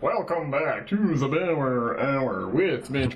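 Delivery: slow announcer intro voice; mock show host welcome; podcast host intro. Shown as a demonstration. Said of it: "I don't like being like".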